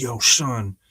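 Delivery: lightly voiced hip-hop gangster. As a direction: put on a touch of street slang swagger. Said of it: "everyone's a gangster in the hip hop room".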